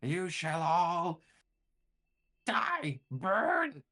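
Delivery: high, loud, drawn-out villain roar; enraged mummy shrieking its threats; furious monster. Acted. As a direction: rage at the intruders, stretching the words. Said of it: "really mad about the intrusion and says".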